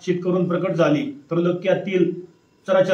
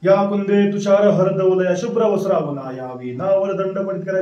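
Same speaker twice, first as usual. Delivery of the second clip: devotional recitation; 2 semitones higher than usual. Acted. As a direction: chant the invocation verses in a steady, reverent flow. Opening Sanskrit invocation verses.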